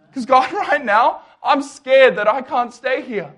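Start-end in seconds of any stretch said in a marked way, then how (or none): none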